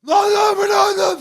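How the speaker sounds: frantic neighbour yelling; imitating a frantic yell. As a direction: bellow lan over and over like a man losing it. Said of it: "delirmiş vaziyette bağırıyor".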